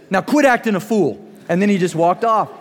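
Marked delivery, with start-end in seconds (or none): 0.1-1.2 stern dad. Retold or imitated. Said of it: "and he said".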